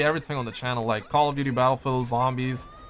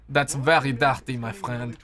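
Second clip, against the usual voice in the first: put-on French accent; 4 semitones lower than usual. Streamer imitating Ubisoft's French speakers, French accent. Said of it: "so much, uh, French accent".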